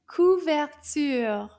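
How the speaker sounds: slow, loud Couverture; teacher modelling Couverture slowly; slow model word. Shown as a demonstration. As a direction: stretch out Couverture syllable by syllable. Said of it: "Did you say couverture?".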